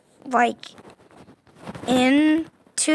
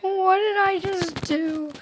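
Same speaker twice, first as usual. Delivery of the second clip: much higher amazed question; amazed disbelief; 8 semitones higher than usual. Real, not acted. Gamer marvels at own move, amazed. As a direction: ask it in sheer wonder.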